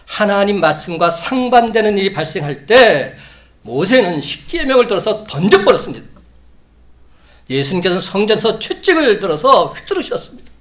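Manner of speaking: loud, high-pitched preaching at full force; impassioned preaching. Real, not acted. Preacher recounting righteous anger of Moses and Jesus, impassioned preaching. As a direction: thunder it out to the congregation.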